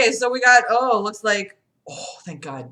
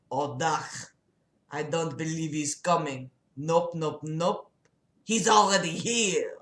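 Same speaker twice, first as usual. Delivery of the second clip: lightly voiced patient David; 2 semitones lower, 4 dB quieter than usual. Plays patient David, chuckling.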